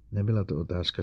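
usual speaking voice

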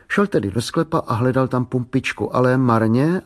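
usual speaking voice

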